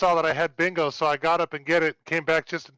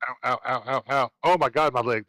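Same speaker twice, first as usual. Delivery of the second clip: getting a leg cramp; 3 semitones lower than usual. Real, not acted. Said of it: "my calf started cramping".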